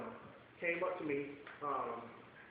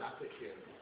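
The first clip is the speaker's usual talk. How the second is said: much lower and softer, calm; low hushed voice of God, reassuring; 12 semitones lower, 11 dB quieter, much faster than usual. Retold or imitated. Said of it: "And God said".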